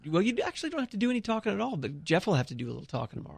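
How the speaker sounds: rushed, quick teasing aside; fast aside. Real, not acted. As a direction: rattle it off quickly. Teasing host about resting voice.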